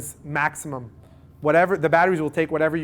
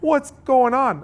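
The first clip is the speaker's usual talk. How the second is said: panicked owner; 3 semitones higher than usual. Retold or imitated. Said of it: "owners that are freaking out".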